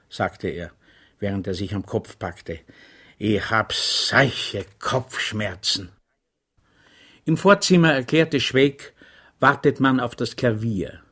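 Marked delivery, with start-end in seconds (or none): 3.2-5.9 weary groan. Acted. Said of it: "seufzte der Feldkurat".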